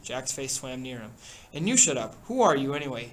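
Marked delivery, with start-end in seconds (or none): 1.5-3.1 louder, sharp challenge; angry retort. Acted. Jack challenging Ralph's leadership, angry. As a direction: turn on him hard.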